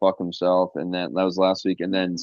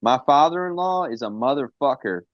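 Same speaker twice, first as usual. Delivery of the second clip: Conrad Thompson voice; 7 semitones higher than usual. Pretend. Hyping Conrad Thompson, mock boss.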